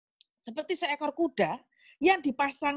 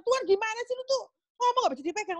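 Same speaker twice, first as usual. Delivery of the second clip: higher-pitched, quick grumble at God; acted exasperated complaint, rushed and raised in pitch; complaining; 6 semitones higher, faster than usual. Believer complains to God about broken promises, exasperated. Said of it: "Terus kita mulai komplain".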